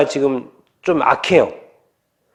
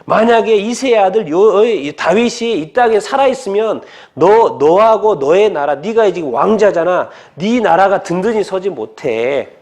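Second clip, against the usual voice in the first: angry king; 2 semitones higher than usual. Retold or imitated. Father telling his son that David must die, mock anger. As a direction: lay down a sentence as an angry father. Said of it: "그러면서 말하는 거예요".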